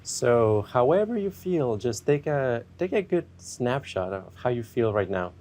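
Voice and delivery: unhurried meditation guide with long pauses; guided meditation. Acted. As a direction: ease listeners gently into checking in with themselves.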